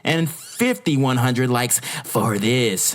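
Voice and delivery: slow, drawn-out disbelief; incredulous. Real, not acted. Vlogger reading a bigger like count, slow incredulity. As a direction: drag the words out, baffled by the number.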